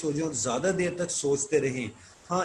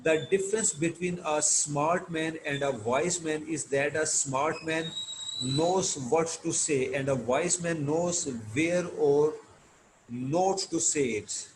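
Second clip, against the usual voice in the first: reading aloud; much slower than usual. Shown as a demonstration. Teacher reads English text slowly.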